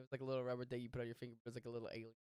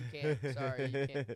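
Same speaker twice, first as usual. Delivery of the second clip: construction worker voice; 7 dB louder than usual. Retold or imitated. Imitating costumed construction worker.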